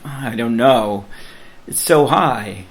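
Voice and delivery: balking a little; hesitant worry. Retold or imitated. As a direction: retell a nervous objection with a touch of dread. Voices own reluctance at the height.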